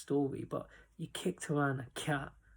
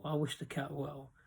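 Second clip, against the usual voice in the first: a quieter, heartfelt echo; softer sincere repeat; 2 semitones lower, 7 dB quieter than usual. Real, not acted. Vlogger signing off to viewers, softer sincere repeat. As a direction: drop the voice as you repeat it. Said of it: "But I wish the cat well".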